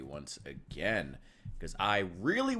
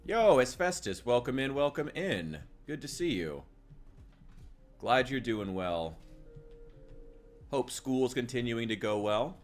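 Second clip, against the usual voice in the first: high, loud cheerful shout-out; warm welcoming host; 6 semitones higher, 5 dB louder than usual. Real, not acted. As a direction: greet a regular viewer brightly. Greeting a chatter by name.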